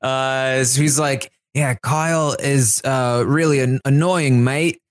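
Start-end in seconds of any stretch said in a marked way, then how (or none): 1.6-4.8 halting, drawn-out attempt at a British accent; Joseph's fake British accent. Host imitating a contestant's accent, tentative British accent. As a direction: try a poor British accent, feeling for the words. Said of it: "let me try to do Joseph's accent".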